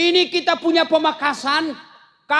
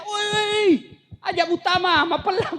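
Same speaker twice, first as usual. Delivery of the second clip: mock shout; 4 semitones higher than usual. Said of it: "dia teriak".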